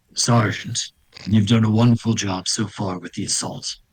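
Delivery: powerful, strong, dark-sounding voice. A game master voices the figure patched through to the sergeant, in a strong, dark voice. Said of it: "you hear a strong, dark voice".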